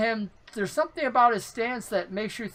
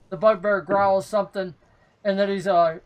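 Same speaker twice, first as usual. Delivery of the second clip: ordinary talk, nothing marked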